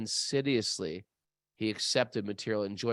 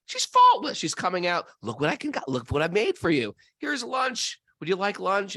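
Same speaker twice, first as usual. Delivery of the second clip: higher, gushing doting relative; 7 semitones higher, 4 dB louder than usual. Retold or imitated. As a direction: play a doting relative, pitched up.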